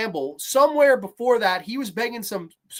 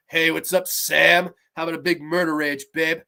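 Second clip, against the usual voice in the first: lightly voiced ghost; 5 semitones lower than usual. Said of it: "And he's going".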